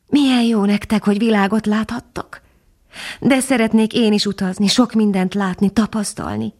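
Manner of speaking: put-on young dog introducing himself to the bird; eager young dog. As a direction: speak like a young, awed puppy. Young dog voiced in story.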